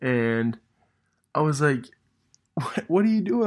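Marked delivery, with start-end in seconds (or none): 2.5-3.5 retold surprise. Retold shock at missing kids.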